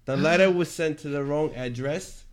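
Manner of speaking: put-on Australian accent. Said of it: "It just sounds a little British".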